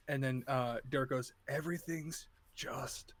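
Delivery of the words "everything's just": slow, soft, drawn-out fake comfort; eerie hush. Derek murmurs to McKenna before tearing her throat out, sinister hush. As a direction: let it sink to a whisper before the kill. Creature soothes then kills.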